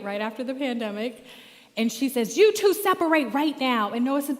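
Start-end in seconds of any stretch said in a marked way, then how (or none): 2.4-3.9 higher, louder sharp command; stern order. Retold or imitated. Young after-school teacher ordering two boys apart, loud stern command. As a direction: order the kids apart at once.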